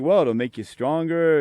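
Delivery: the friend's line, said lightly and matter-of-fact; quoting the friend. Retold or imitated. Quoting the family friend who dismisses missionary suffering, a near-plain matter-of-fact retelling. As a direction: repeat his words straight, no mockery. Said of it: "'Cause he's like".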